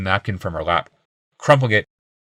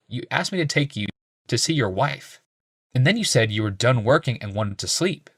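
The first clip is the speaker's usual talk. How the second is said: put-on young healer; 4 semitones higher, 3 dB quieter than usual. A narrator's reading.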